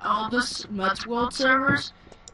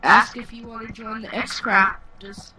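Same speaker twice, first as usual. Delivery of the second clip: put-on British accent; 4 dB louder than usual. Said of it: "Stop saying in British".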